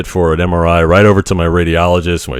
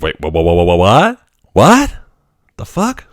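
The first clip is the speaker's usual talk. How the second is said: stunned wife. Retold or imitated. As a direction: imitate shocked disbelief climbing up. Wife hearing he's in ER.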